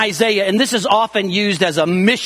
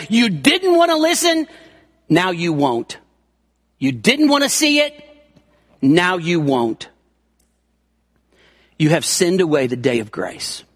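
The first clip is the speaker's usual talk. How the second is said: raised, suspended first clause, low falling verdict after a pause; solemn pronouncement; 6 semitones lower than usual. Acted. Preacher voicing the Lord's final judgment, solemn pronouncement.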